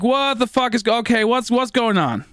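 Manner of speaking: mild mock panic from a spooked mom; mom freaking out. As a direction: imitate mom startled and confused. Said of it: "my mom's at this point like".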